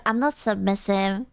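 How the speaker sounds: mock lying denial. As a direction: say it like an obvious lie. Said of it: "When you're in a lying contest".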